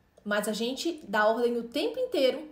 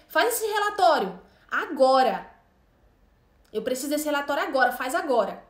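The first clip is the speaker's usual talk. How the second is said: chefe mandão; 3 dB louder than usual. Retold or imitated. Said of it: "Imagina o seu chefe falando assim".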